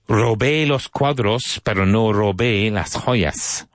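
stretched out slowly, "Robé" high; slow model sentence. Shown as a demonstration. Teacher reads the Spanish model slowly to students. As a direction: savour each Spanish word for the learners. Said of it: "model sentence".

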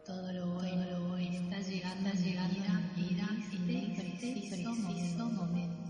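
voz lejana y muy tenue; eco de fondo. Acted. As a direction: repite la afirmación como un eco distante. Ecos superpuestos de la afirmación. (eco suave y lejano)

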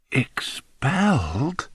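terrified whisper. A narrator's reading. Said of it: "Bunce breathed the word in a terrified whisper".

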